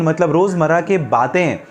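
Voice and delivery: normal talking voice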